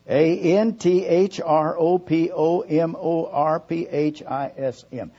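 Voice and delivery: letter by letter with long pauses; dictating. Shown as a demonstration. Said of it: "I'm gonna spell it".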